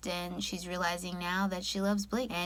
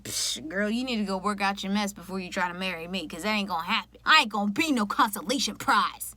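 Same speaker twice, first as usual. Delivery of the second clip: brushing her off with attitude; sassy dismissal. Pretend. Voicing Blake dismissing Katie.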